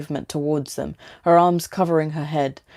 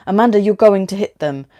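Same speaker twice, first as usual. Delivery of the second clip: urgent warning; 3 semitones higher, 6 dB louder than usual. A narrator's reading. Men in road, she speeds.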